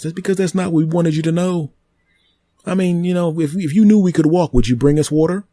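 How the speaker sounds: a living tree explaining itself to the human, high and smug; talking tree. Acted. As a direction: play the tree, smug and amused. Tree character argues.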